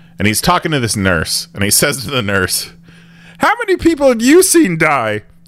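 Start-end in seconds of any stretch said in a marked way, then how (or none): 3.4-5.2 squeaky, high-pitched puppet voice. Describing a sketch, quoting the store manager speaking to a nurse in Glenn's Muppet voice. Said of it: "He's got like a Muppet voice".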